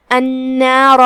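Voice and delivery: النار ending in a full, heavy ra. Shown as a demonstration. Teacher shows ra in heavy voice, full dark r in النار. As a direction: hold the n, then thicken the r in النار. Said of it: "ہم را کو بھاری آواز میں پڑھیں گے".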